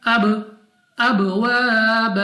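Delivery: अब with a bouncing echo release on the ब; qalqala echo. Shown as a demonstration. Teacher shows students the echoing qalqala on ब. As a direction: let the ब in अब bounce back like an echo. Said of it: "जैसा कि".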